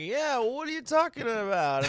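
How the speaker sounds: mock commentator voicing an arguing player; John Boy impression. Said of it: "John Boy's just voice when he does those".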